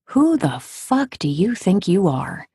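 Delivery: slow, deliberate retold challenge; stern confrontation. Counselor calling out a patient, imitated stern slow delivery. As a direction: space the words out as a stern challenge.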